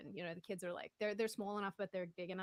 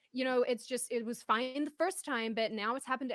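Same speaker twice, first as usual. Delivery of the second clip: mock aggressive woman; 4 semitones higher, 6 dB louder than usual. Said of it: "she was so aggressive with me".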